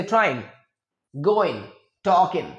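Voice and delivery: ट्राइंग, गोइंग, टॉकिंग with a light final N; dropped g endings. Shown as a demonstration. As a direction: clip the G off each -ing. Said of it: "बहुत ही कम बार आप सुनेंगे".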